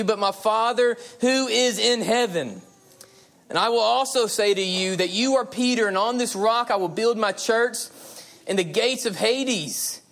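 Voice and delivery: fervent pulpit reading; preaching scripture. Real, not acted. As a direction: stretch key words as you proclaim the verse. Preacher reads scripture with force.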